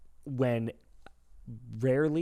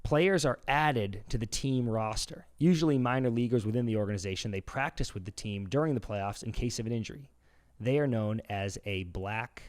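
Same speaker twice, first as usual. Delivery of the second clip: quizmaster. Acted. Host quizzing Dan in a trivia game, quizmaster read.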